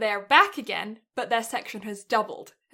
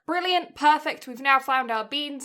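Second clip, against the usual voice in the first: excited; 3 semitones higher, 4 dB louder than usual. Retold or imitated. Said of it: "So we were like".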